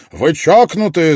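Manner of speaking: loud, high outraged yell; high-pitched furious cry. A narrator's reading. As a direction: shout it at them in disbelief. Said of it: "завопил я".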